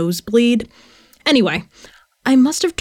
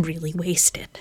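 whispering; 5 semitones lower, 10 dB quieter, slower than usual. Acted. Sheepish confession, unvoiced.

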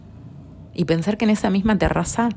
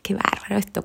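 voiced, higher "qué bárbaro esto" in delight; marvelling aloud; 5 semitones higher, 4 dB quieter than usual. Shown as a demonstration. Showing how she marvels at life, voiced amazement. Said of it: "Es como decir".

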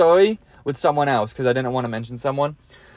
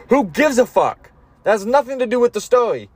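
impatient listener; 7 semitones higher than usual. Retold or imitated.

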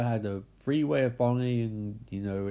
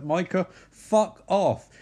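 exasperated; 4 semitones higher, 4 dB louder, slower than usual. Retold or imitated. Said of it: "She's like".

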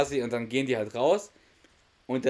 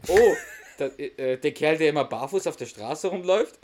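higher and louder, laughing through the quote; 3 semitones higher, 7 dB louder than usual. Retold or imitated. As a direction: giggle while recalling the barefoot guy. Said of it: "meint nur". (lachend erzählt)

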